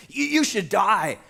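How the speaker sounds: condemning outburst. Acted. David's angry verdict acted.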